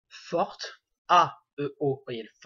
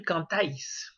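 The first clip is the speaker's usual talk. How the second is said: cantaís with "TA" stressed, gliding into the I; weight the second A of cantaís, I gliding after. Shown as a demonstration. Teacher repeating it so learners hear the accent, stressed A. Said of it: "mettre l'accent sur le A".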